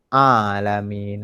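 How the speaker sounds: slow, level "alamin" with mid-throat A; correct ain. Shown as a demonstration. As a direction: model "alamin", first vowel held in the throat. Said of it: "A tengah kerongkong".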